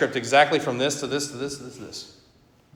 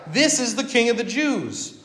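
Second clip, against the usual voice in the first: higher, sneering title read out to jeer; mocking; 6 semitones higher than usual. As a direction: proclaim it with scorn, as a jeer at the crowd. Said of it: "the Romans mean it mockingly".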